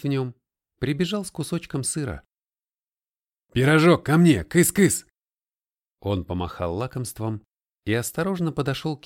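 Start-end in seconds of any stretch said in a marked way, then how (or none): 3.5-5.1 high, loud coaxing call. A narrator's reading. Colton calls the cat to come, loud coaxing. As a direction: call the cat over with a treat.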